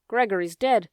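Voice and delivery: a loud cry of bad news; shouted. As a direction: call the news out loudly. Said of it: "shouted Cook".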